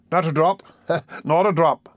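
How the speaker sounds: lightly voiced dignified beadle, chuckling; mildly pompous refusal. A narrator's reading. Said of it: "in a dignified but placid manner".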